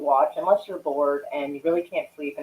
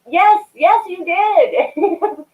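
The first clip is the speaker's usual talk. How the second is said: mock emphatic agreement; 12 semitones higher, 6 dB louder, much slower than usual. Retelling own emphatic reply.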